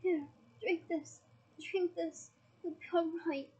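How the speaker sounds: understated desperate coaxing; desperate urging. Acted. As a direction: urge him to drink, with restrained desperation. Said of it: "Harry said desperately".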